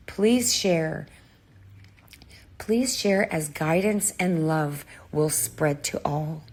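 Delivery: losing her voice, husky and strained; hoarse voice. Real, not acted. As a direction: talk through a worn-out, hoarse throat. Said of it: "Sorry about my voice".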